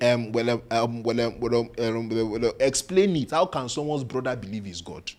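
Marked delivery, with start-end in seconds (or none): 0.0-3.3 mock stammering scholars. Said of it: "Scholars will be saying".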